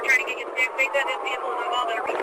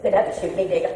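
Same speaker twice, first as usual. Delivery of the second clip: angry; 12 dB louder than usual. Real, not acted. Woman defying officers, screaming.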